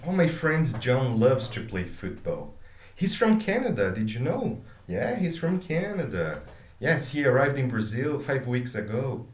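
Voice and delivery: quick, lively remembering-as-you-go chat; casual chatty speech. Shown as a demonstration. Teacher acting out a casual chat to students. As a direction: rattle it off like talking to a friend. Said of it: "this is how the conversation would happen".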